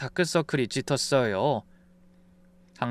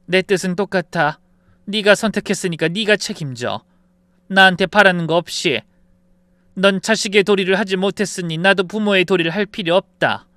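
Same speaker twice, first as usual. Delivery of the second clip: firm mother with raised voice; stern refusal; 4 semitones higher, 5 dB louder than usual. Acted. Mother telling son he bears his choice, stern refusal. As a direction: push each word out, unyielding.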